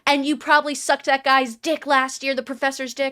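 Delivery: mock frantic accusation; a touch of possessed ranting. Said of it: "He keeps getting more frantic".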